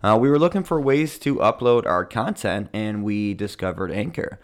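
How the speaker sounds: ad read. Acted. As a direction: sell it like a radio spot. Reads sponsored ad.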